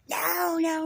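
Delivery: high, drawn-out mock holler; exaggerated high-pitched protest; mock angry refusal. Acts out his angry refusal.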